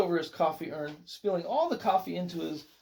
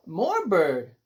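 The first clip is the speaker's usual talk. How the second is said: put-on toddler's excited little call; baby crying out; 5 dB louder than usual. A narrator's reading. Baby Joshua calling for more pigeons, crying out. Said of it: "he cried".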